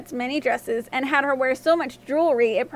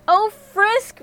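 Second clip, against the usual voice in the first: high, louder cry of dismay; distressed storybook princess, pitched up; 8 semitones higher, 5 dB louder than usual. A narrator's reading. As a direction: wail it to the dog, acted. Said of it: "Rosette cried".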